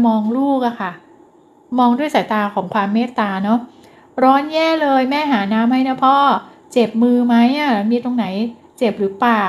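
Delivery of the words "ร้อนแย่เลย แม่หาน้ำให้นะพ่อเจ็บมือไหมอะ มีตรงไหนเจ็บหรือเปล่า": slow, concerned kind words; wife fusses kindly over tired husband; caring wife. Pretend. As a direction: soothe a sweaty husband gently. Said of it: "เป็นประโยคแบบเนี้ย".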